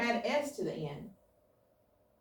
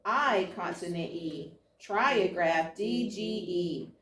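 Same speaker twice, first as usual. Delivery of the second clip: brisk call of each pattern name, then its letters; flashcard drill; much slower than usual. Acted. Teacher running spelling cards with the students, brisk drill call. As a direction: rattle through the cards for the class.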